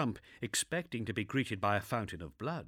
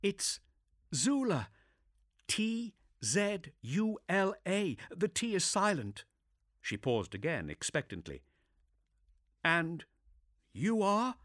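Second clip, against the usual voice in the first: higher brisk female voice; composed but shaken inquisitor; young woman voice; 10 semitones higher than usual. Acted. Zula spells her name.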